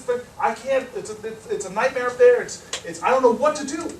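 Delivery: worked-up, halting complaint; mock-exasperated whine; retold whining. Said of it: "whining at her nonstop".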